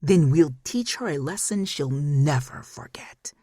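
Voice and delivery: slow, menacing whisper; a slow whispered villain's threat; ominous whisper. Acted. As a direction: hiss it slowly like a threat. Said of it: "Ominous laughter bubbled up".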